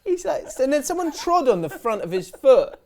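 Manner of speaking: telling it through laughter; can barely get it out for laughing. Real, not acted. Telling the shoe story to a co-host while laughing.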